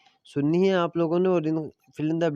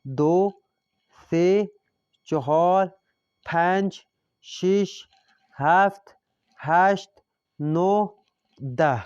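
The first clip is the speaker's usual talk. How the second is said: counting aloud for class; 3 semitones higher, 4 dB louder, much slower than usual. Shown as a demonstration. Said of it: "اب اعداد پڑھتے ہیں ہم،".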